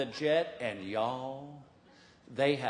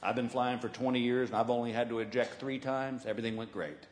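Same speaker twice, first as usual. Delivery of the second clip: lightly voiced unbothered flyboy; cool pilot; 5 semitones lower, 4 dB quieter than usual. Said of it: "He goes".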